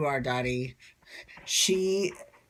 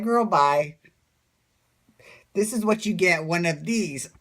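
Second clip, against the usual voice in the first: sassy brush-off; 4 dB louder than usual. Pretend. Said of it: "I'd just be like".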